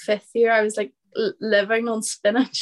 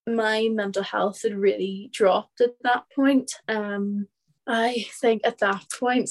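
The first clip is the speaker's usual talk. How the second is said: talking with water held in mouth; mouth full of water. Real, not acted. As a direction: speak around a mouthful of water. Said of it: "I'm just having my mouth full of water".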